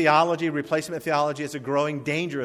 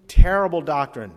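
loud warning; 8 dB louder than usual. Acted. Preacher warns about false teaching.

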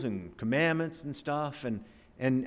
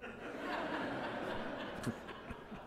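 breathy laugh; 14 semitones higher, 14 dB quieter than usual. Real, not acted. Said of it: "That never happened".

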